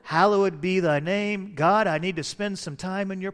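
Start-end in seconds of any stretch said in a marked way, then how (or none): 0.0-1.5 reciting prayer. Shown as a demonstration. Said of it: "I'll just say".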